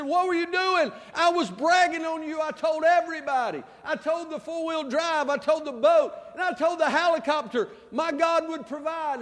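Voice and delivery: a man scolding God for not saving him; indignant complaint. Retold or imitated. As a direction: demand an answer, aggrieved.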